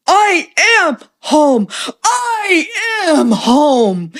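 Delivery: elder overcome, answering the welcome through tears; retold tearful cry. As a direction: let the voice break on home, then laugh through the tears. Elder's emotional reply, retold.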